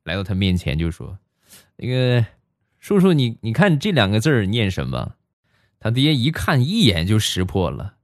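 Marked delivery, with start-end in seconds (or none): 1.8-5.1 put-on sugary, eager young man asking a favour; butter up the father; a sweet-mouthed suitor, lightly voiced; sweet-talking. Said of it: "嘴儿很甜".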